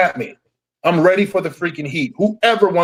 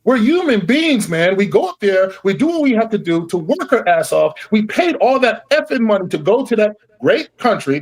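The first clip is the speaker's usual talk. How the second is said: angry; 5 semitones higher than usual. Real, not acted. Angry rant at the league.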